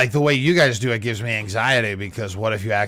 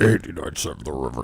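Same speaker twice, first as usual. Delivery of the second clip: DJ voice; 8 semitones lower than usual. Retold or imitated. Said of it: "Did you hear him talking like a D J?".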